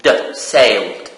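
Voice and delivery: "sailed" with the d sound at the end, no extra syllable. Shown as a demonstration. Teacher correcting the class on how "sailed" ends. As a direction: model "sailed" ending in d. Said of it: "it is pronounced".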